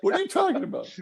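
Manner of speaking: high, far-up laughing question; disbelieving laugh at the story; real amused disbelief. Real, not acted.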